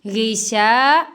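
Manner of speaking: गिशा with a thick गै and शा held one count; heavy ghain, long sheen. Shown as a demonstration. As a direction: stretch the शा of गिशा. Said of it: "शीन को one second लंबा करेंगे". (गिशा में शीन लंबा)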